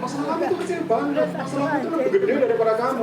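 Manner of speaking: unempathetic counselor. Acted. Counselor to weeping client, belittling. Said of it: "kalau orang nggak empati itu kalau jadi konselor".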